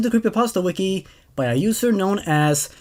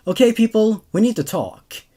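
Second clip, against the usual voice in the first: brisk, raised call to order; stern teacher; 3 semitones higher than usual. Acted. Vicky calling the teachers to a meeting, firm and raised. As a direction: gather the staff firmly.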